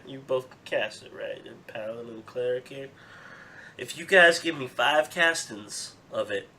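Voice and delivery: lightly voiced, folksy merchant haggling; a friendly Southern trader making a deal; Southern shopkeeper.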